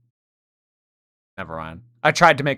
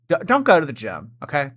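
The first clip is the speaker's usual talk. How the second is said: quick, louder nagging parent; hurried mock lecture; 3 semitones higher, 4 dB louder, faster than usual. Mocking Chantal's advice.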